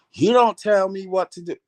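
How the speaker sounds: retold husband yelling, half-hearted; mock angry yell. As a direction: bark it back at her like an annoyed husband.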